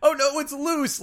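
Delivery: very high, loud panicked squeal; hammed-up alarm, clownish; silly clown. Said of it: "the perfect inflection".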